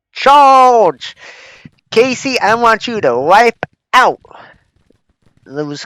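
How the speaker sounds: loud, high shouted charge order; battle cry. Pretend. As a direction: yell the charge like a general. Commanding troops in battle game.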